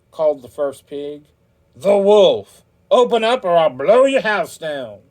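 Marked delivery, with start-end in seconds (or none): 1.8-5.0 loud, high, menacing wolf call; wolf's threat. A narrator's reading. Wolf threatens first pig through the door, loud menacing call.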